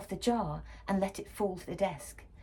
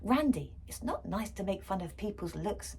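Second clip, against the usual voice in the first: crossly. Acted. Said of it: "Mum said crossly".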